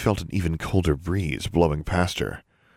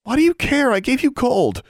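put-on high, louder upset girl; pleading girl; 7 dB louder than usual. A narrator's reading. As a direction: push back in a high young girl's voice. Darla argues with John.

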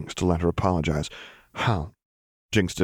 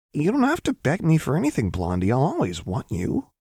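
higher voice, settling as it goes; simple sincerity; 9 semitones higher than usual. A narrator's reading. Jinx assuring Lux of her love, simply. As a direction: state it simply, as plain fact. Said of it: "She said it so simply".

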